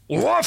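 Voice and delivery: high yappy woof; mock dog bark.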